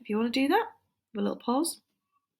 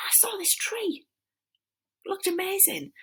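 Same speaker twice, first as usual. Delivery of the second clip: whisper; 13 semitones higher than usual. Acted. Acting out the character's discovery.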